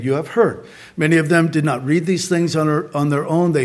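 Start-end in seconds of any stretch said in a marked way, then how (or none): 0.0-0.6 "You have heard" echoed lower in pitch; "You have heard" repeated in a lower voice. Shown as a demonstration.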